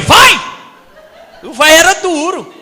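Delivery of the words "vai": high, loud one-word order; loud strict master's order; sharp command. Retold or imitated. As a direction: snap the boy back to work.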